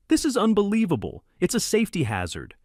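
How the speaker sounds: high, loud shriek. A narrator's reading. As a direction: shriek it in outrage. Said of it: "she shrieked".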